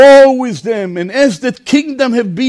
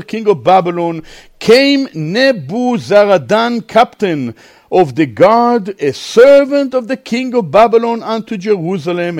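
scripture reading. A narrator's reading. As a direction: draw the verses out for a congregation.

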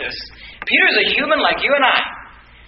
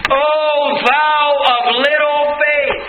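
rebuking cry; 5 semitones higher, much slower than usual. Acted. Jesus rebukes Peter in scripture.

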